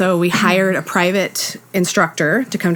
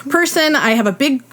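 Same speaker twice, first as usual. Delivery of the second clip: pitched up, laughing through the list; high comic protest; 8 semitones higher than usual. Retold or imitated. Protesting to niece.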